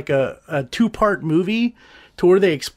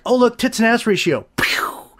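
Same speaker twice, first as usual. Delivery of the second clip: mocking filmmakers; 4 semitones higher than usual. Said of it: "So they like".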